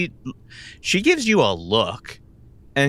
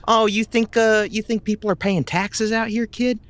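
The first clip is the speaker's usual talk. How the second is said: higher, incredulous mockery; mocking disbelief; 10 semitones higher than usual. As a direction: talk down to a naive kid. Honey Bunny mocking naive player.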